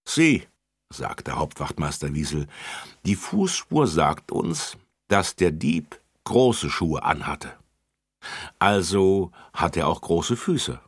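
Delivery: put-on officer explains the footprint to children; officer explaining. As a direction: explain patiently.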